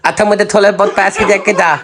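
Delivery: a cheeky, half-laughing imitation of her asking for money; laughing while copying her demand; mock demanding wife. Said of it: "नहीं, वैसे बोलना". (पत्नी की हँसते हुए नकल)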